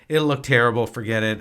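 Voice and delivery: loud scoffing dismissal; mock dismissive husband; dismissive retort. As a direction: wave it off firmly. Dismissing wife's idea.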